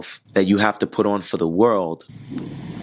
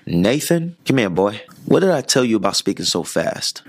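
lightly voiced grandmother taking a child to task; grandmother's scolding. Grandmother pulling up a fast-talking boy, lightly imitated scolding. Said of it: "this is how she talks".

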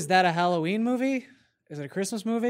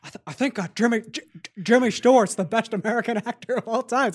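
stuttering, slurred movie-star impression; Jimmy Stewart; 2 semitones higher than usual. Actor secretly promoting himself to a passerby, stammering impression. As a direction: stammer through it as a badly disguised actor. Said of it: "He couldn't even mask his voice".

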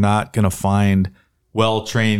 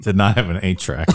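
laughing. Real, not acted. Laughing at old car memory.

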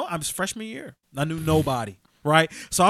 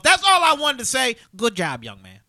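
principal signing off; 4 semitones higher, 4 dB louder than usual. Retold or imitated. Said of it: "she goes".

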